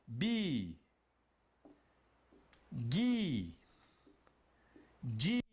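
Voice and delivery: BI, GUI, DI, each one long "ee" syllable; syllable pronunciation. Shown as a demonstration. Teacher showing students how the consonant sounds with I, drawn-out syllables. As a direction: draw out "Bi", "Gui", "Di" separately, with pauses. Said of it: "Como fica a pronúncia?".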